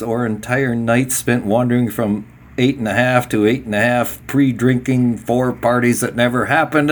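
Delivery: run-on reading with hardly a pause; breathless list-reading of a book passage; read in one breath. Real, not acted. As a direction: reel off the long list as one unbroken sentence. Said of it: "It's all one breath".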